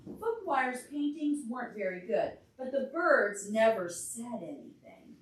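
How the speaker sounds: lively storybook reading; reading to a child. A narrator's reading. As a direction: read it aloud for a little listener. Reads picture book to child.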